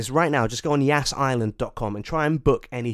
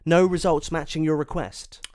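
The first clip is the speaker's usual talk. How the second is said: website voice; 4 semitones higher, 5 dB louder, slower than usual. Retold or imitated. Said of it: "It says".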